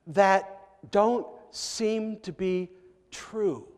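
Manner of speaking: ordinary delivery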